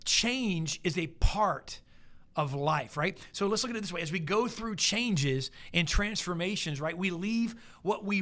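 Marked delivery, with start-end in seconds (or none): 0.0-2.9 change said slowly and stretched; slow emphatic statement. Shown as a demonstration. Preacher stressing change is a part of life to the congregation. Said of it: "I wanna say that again".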